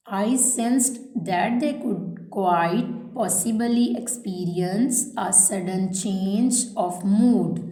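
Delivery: slow, spaced-out dictation read; measured classroom dictation pace. Shown as a demonstration. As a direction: read each phrase slowly so students can write it down. Teacher reads dictation aloud.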